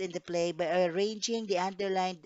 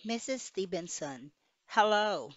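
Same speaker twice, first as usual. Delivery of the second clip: normal talking voice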